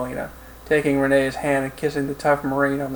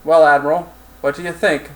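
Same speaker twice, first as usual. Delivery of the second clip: lightly acted harsh Russian accent; Russian-accented officer addressing a colleague; 5 dB louder than usual. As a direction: open firmly in a Russian accent. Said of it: "said in a harsh Russian accent".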